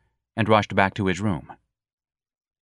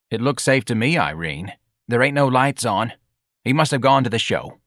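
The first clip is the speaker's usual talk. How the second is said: hoarse voice; 3 semitones higher than usual. Acted. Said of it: "a woman's hoarse voice said".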